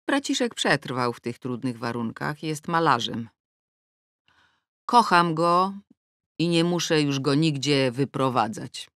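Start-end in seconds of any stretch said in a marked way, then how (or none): none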